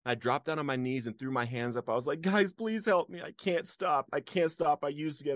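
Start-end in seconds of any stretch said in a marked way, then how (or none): 2.2-5.3 retold crying plea. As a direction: beg for help, voice pushed up as if near tears. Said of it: "and I'm crying".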